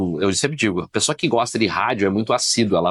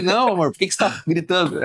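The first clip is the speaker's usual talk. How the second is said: higher-pitched plea to a partner; lightly acted, pitched-up objection; retold protest; 7 semitones higher than usual. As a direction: act out protesting to the wife. Retelling his protest to wife.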